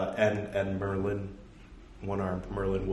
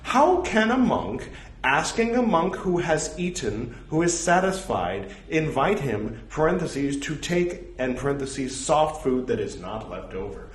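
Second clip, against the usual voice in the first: slightly louder, careful recital voice; scripture reading; 7 semitones higher, 6 dB louder than usual. Acted. Reading a monastic rule aloud to his audience, measured recital. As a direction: read the old text out with measured weight.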